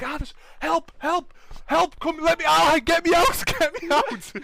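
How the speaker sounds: high cries to be let out; high, urgent mock panic; trapped pleading. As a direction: mimic people banging on glass, yelling. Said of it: "slamming on the window".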